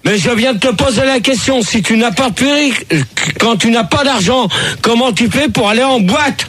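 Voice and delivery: real exasperation, pushing for an answer; exasperated. Real, not acted. Host irritably repeats his ignored question.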